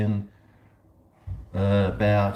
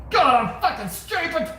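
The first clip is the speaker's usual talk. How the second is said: self-scolding; 14 semitones higher than usual. Real, not acted. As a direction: berate yourself in mock despair. Regretting not buying Bitcoin.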